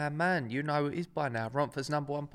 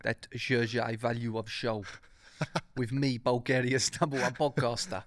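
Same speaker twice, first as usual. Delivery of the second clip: mock Bulgarian podcaster voice, a thin Eastern European accent; terrible Eastern European accent; 3 semitones lower than usual. Host mocks his own intro in a bad Eastern European accent. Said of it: "Terrible accent".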